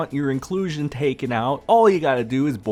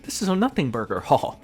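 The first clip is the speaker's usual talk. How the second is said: mock dismissive quote through laughter, pitched up; laughing mockery; 7 semitones higher than usual. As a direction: laugh it off like a clueless fan. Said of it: "the people that are just blindly saying".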